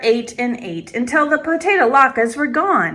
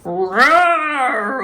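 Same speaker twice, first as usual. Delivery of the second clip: bear growl; 3 semitones higher than usual. A narrator's reading. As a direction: growl out the answer. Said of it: "Old Bear growled".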